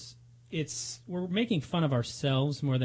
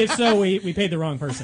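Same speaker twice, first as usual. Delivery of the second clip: laughing; 4 semitones higher, 8 dB louder than usual. Real, not acted. Joking, laughing at own line.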